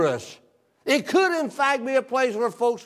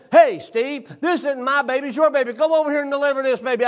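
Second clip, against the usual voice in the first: teasing doctor; 5 semitones higher than usual. Retold or imitated. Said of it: "he said".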